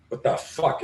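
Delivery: breathless unvoiced "What the fuck?"; stunned, barely any voice; shocked whisper. Drivers see truck coming.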